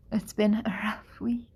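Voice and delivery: tired whisper; breathy tired whisper. Real, not acted.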